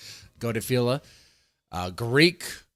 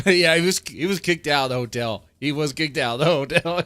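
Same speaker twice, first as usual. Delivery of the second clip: laughing; 3 semitones higher, 4 dB louder than usual. Real, not acted. Laughing about the hotel story.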